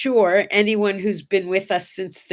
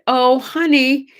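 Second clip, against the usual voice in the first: sweet worried grandma; 8 semitones higher than usual. Acted. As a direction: play the gullible grandma, all sugar. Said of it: "And I immediately said".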